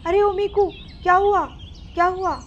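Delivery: high, worried rush of questions; a mother alarmed by her son's cries; lightly acted panic; panicked mother. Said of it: "घबराते हुए बोलती है".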